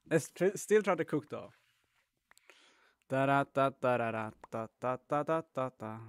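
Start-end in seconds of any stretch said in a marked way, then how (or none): 3.1-6.0 voice changer test. Shown as a demonstration. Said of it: "Voice changer".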